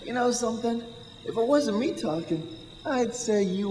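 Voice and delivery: laughing. Acted. Laughing flirtation with Mary.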